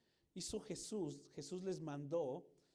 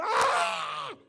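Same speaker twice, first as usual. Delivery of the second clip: piercing, much higher and louder scream of fright; terrified scream; 15 dB louder than usual. Shown as a demonstration. Rider screaming in fear on a roller coaster drop. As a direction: scream like you're plunging down. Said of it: "¿Cómo es el grito?".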